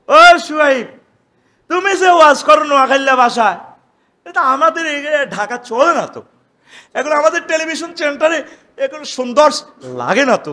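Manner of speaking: loud scornful jeer; mocking townsfolk. The people scorning Shuaib's dialect, loud scornful jeer. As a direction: sneer at the preacher's dialect. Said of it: "قالوا يا شعيب".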